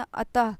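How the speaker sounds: अतः ending in an audible "ha" sound; visarga as h. Shown as a demonstration. Teacher showing the visarga sound, अतः with h ending. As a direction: finish अतः on a clear h. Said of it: "हा निकला ना".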